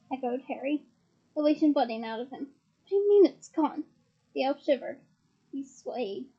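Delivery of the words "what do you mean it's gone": alarmed. Acted. Harry shocked.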